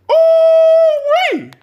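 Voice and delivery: high, loud gleeful holler; excited whoop. Real, not acted. Podcaster switching to sports, hollering with glee.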